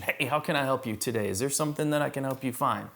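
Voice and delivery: imitating a keen sales rep; eager, on a mission. Sales rep walking right up to a customer, eager. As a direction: offer help like a rep on a mission. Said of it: "just, like, with a mission".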